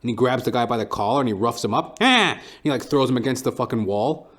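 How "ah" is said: short high yelp of pain, hammed-up; mock pained cry. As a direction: yelp like a guy slammed into a wall. Cook roughed up, cries out.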